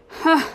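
short, loud, high "huh"; single acted laugh, loud and high; scornful laugh. A narrator's reading. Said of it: "laughed the tramp".

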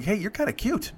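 soft, high flirty voice; lightly mimicked coy come-on; imitated flirting. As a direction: play a passenger coming on to the driver. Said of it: "this kind of flirty".

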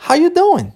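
"How you doing" high and run together, falling at the end; casual linked pronunciation. Shown as a demonstration. English teacher modelling the greeting for practice, linked and high. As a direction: say "How you doing" as one quick high-pitched phrase. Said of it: "Seria essa a pronúncia".

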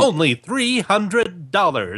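put-on old-timey radio announcer. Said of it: "use the old-timey radio voice to announce the prices".

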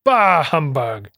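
slow, drawn-out mock grumble; classic Scrooge. Grouch answering a question about Christmas, slow drawn-out humbug. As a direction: stretch out the dismissal at half pace. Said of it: "classic line where he says".

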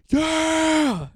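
high, drawn-out whoop; mock cheer. Bros cheering between songs, high hammed-up whoop. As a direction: whoop it like a hyped bro.

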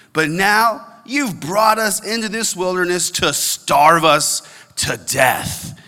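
slow, hammed-up whine of self-pity; dramatic whining. Pastor reading the Israelites' complaint, hammed-up whining. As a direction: play the grumbling Israelites like a dramatic teenager. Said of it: "Like dramatic".

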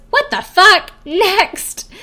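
high, loud imitated shout; mock outburst. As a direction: blurt it out in shocked disgust. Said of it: "Amanda goes".

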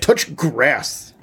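mock-angry "Touch grass", landing on "grass"; mad, weighty emphasis. Shown as a demonstration. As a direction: stretch "grass" with falling finality. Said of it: "You gotta say it".

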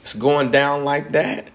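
high, slow, half-laughing amazement at the book; shocked reaction. Retold or imitated. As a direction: act out a student's scandalized disbelief while reading. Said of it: "And you go".

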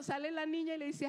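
normal talking voice

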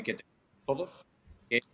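breaking up over the call; call dropping out. Real, not acted. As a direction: voice fading out on a bad connection. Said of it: "te estás cortando".

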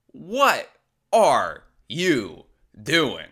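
slow, stretched-out incredulous question; stunned disbelief. Real, not acted. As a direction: draw out ARE in disbelief.

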